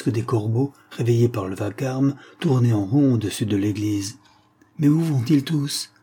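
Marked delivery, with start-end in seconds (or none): 4.8-5.9 lightly voiced old woman, higher, puzzled; a hint of a bewildered old lady asking; mild incredulous old woman's question. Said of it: "demanda une vieille dame, incrédule".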